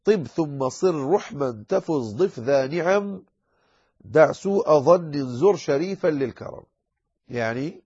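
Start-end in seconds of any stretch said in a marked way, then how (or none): 0.0-6.6 طب ثم صر رحما recited slowly with a measured rhythm; teacher reciting a teaching poem slowly; verse recitation. Shown as a demonstration. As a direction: recite the line of verse in a steady meter. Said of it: "أوائل قول الناظم".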